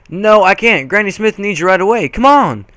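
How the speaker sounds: high, pushy little sister; insistent little sister. Acted. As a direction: urge her big sister along. Apple Bloom urging sister.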